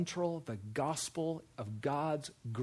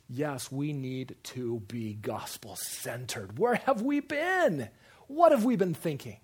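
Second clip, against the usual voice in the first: przesadne olśnienie; 5 dB louder, slower than usual. Acted. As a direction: drag it out, then cry out in mock amazement. Acting out people suddenly won over.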